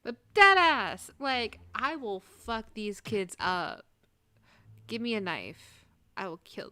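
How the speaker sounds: loud, slow furious threat; a loud, drawn-out angry threat; fierce threat. Acted. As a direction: bellow the threat slowly. Threatening the attackers.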